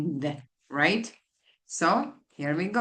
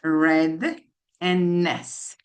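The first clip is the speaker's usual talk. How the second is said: slow, split apart; slower than usual. Shown as a demonstration. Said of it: "The word is redness".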